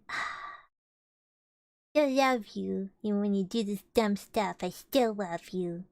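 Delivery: acted doting sigh, slowing at the end; loving voice. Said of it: "but in a loving voice".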